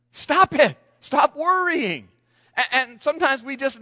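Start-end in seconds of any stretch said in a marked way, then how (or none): 0.1-2.1 higher, louder, slow command; firm command. Retold or imitated. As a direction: hammer it home like a preacher. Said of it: "He says".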